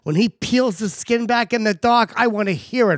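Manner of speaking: slow, lightly voiced mother giving advice; unhurried mock-motherly proclamation; imitated mother. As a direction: pronounce it slowly like a mother's solemn wisdom. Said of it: "My mother told me".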